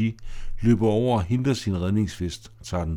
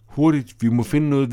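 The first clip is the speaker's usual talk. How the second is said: urgent; 4 semitones higher, 4 dB louder than usual. Acted. Betty urges action, window broken.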